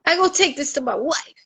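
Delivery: lightly voiced Jamaican robber demanding; Jamaican accent. Jamaican robber demanding his share in a Jamaican accent. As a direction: insist on the money in a Jamaican accent. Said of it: "a Jamaican and a Haitian".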